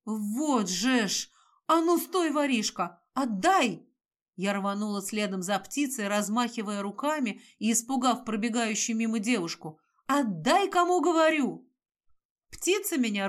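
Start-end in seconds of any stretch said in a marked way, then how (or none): 0.1-3.9 shouting. Acted. Shouting at thief crow. 10.1-11.7 loud furious demand; angry shout. Acted. Chasing crow, yelling.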